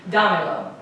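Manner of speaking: "Damelo" with the emphasis on "Da"; stress on first syllable. Shown as a demonstration. Teacher has class listen for the tonic syllable, stress on "Da" in "Damelo". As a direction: hit the opening "Da" of "Damelo", let the rest fall away. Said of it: "Where is the emphasis of my voice going?".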